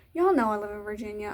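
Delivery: a put-on Southern twang; Southern accent. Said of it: "why am I talking in this accent".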